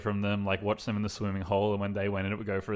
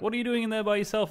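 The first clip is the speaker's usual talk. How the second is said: seahawk voice; 12 semitones higher than usual. Retold or imitated. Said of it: "the Seahawk's like".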